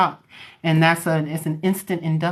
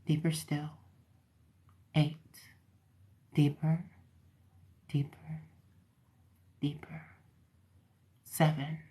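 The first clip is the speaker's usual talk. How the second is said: slow soft countdown, fading to near whisper; hypnotic countdown; 3 dB quieter than usual. Shown as a demonstration. Hypnotherapist counting a client down into sleep, slow fading voice. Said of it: "So I say".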